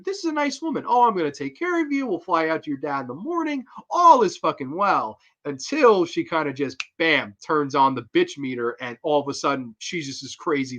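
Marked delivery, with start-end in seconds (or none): 0.0-5.2 higher, sugary mock-sweet voice; sweet fake-nice woman. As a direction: play the nice lady luring her in. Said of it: "they lull you into".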